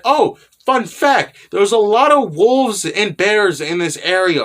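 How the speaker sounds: lightly hammed-up fun-fact voice; cheery Skasa-chan. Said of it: "she starts talking about that".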